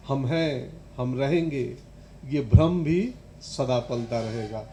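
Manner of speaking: measured, reflective verse reading; understated poem recital; poetry recitation. Acted. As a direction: let each line of verse stand apart.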